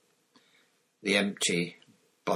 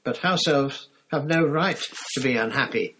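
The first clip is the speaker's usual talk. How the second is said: dutiful elf. Acted. House elf explaining.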